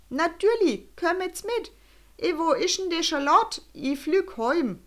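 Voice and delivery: put-on high Swiss German old man, slowing at the end; old balloonist answers, then gives up gloomily. A narrator's reading.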